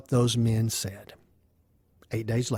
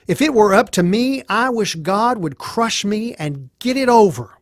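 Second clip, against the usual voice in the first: raised, high-pitched desperate outburst; anguished protest; 6 semitones higher than usual. Acted. Job answering his friend Eliphaz about his suffering, anguished. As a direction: cry out in anguish against suffering.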